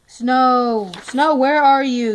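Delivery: loud call across the field; calling a horse to come. Real, not acted.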